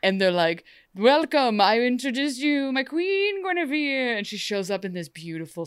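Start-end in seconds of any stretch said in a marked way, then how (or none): 0.9-4.2 grand herald announcement. Retold or imitated.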